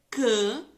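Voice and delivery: CAMA broken into two loud beats, cama; split into syllables. Shown as a demonstration. Teacher showing pupils the syllables, "cama" split apart loudly. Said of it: "Uma sílaba".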